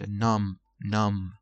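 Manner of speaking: numb repeated with no B sound; silent B. Shown as a demonstration. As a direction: close numb on a plain M. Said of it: "بی آخر تلفظ نمیشه".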